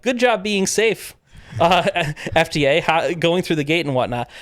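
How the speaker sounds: sarcastic praise. Retold or imitated. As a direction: tease the official with fake praise. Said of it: "I'm like".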